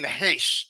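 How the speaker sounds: Heish said "haysh", with an audible h; mimicked mispronunciation. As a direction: mockingly quote Heish, ending in "sh". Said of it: "you opened up saying".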